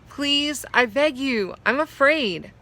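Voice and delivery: high, begging plea; frightened pleading. A narrator's reading. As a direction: plead with the horse, scared. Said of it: "I cried".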